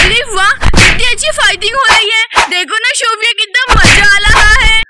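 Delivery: loud, delighted spectator; excited cheering. Acted. Onlooker enjoys the friends' fight, excited cheering. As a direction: exclaim with noisy glee.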